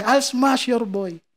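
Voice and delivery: slow Russian-accented taunt, imitated; Khabib. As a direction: mimic a Russian fighter, drawing the words out. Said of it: "Yun yung iconic niya".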